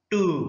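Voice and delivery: टू with a held oo; long vowel. Shown as a demonstration. Teacher sounds out a spelled syllable, long vowel. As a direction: draw out the vowel of टू. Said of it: "उच्चारण थोड़ा सा लंबा होता है".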